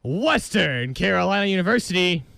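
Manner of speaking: smooth station announcer delivery; radio DJ read. Acted. Host announces the next song on his radio show. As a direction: sell the station ID.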